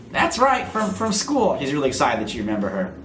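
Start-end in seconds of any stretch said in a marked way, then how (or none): 0.1-1.6 squeaky gorilla voice. Acted. Katie Kong voiced on phone.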